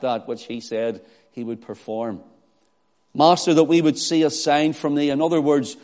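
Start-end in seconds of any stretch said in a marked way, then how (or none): 3.1-5.1 mildly sarcastic demand; mock deference with a challenge in it; cynical arrogance. Scribes challenging Jesus, mildly sarcastic. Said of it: "nothing short of sarcasm and cynical arrogance".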